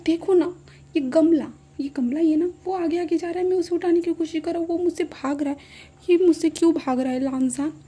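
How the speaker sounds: put-on high, loud childlike complaint; high tipsy whine to Lan Zhan; childish whine. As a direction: tattle like a small kid. Drunk Wing showing the pot.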